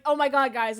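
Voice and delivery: loud, hammed-up awe; mock amazement. Fooled park visitor telling friends about the animals, mock amazed. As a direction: exclaim like a duped onlooker.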